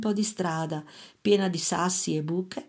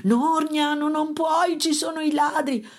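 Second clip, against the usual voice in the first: a higher, urgent mother voice; anxious mother; 8 semitones higher than usual. A narrator's reading. Mother scolding her son above the thieves, high and urgent. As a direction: stop him without being heard.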